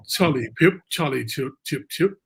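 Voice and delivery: a playful, hammed-up British accent on the names; lightly put-on British accent, teasing friends in the UK; mock British accent. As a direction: toss off the nicknames in a jokey fake British accent. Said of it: "that's my British, uh, accent though".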